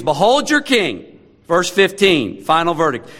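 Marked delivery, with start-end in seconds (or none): 0.0-1.2 slow, higher-pitched mock announcement; sarcastic. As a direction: draw out the proclamation with mild sarcasm. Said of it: "his words drip with sarcasm".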